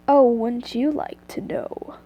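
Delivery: put-on slow, soft go at an Irish accent; badly faked Irish accent, drawn out; attempted Irish accent. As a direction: try an Irish lilt, slowly and not quite managing it. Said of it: "Wait, I can't do a Scottish, fu-, an Irish accent".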